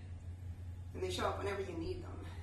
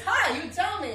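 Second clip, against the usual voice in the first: higher, louder West Indian lilt; cheerful West Indian invitation to talk; West Indian accent; 8 semitones higher, 10 dB louder than usual. Retold or imitated. Cab driver inviting her story, West Indian accent. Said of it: "West Indian accent".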